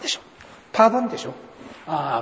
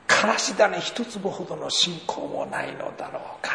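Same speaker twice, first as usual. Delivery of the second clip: mild dismay; 4 semitones higher, 3 dB quieter than usual. Retold or imitated. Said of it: "彼女はショックですよ".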